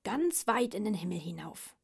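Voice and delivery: mildly boastful pug; proud, lightly acted boast. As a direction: brag a little, punching the words. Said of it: "prahlte der Mops".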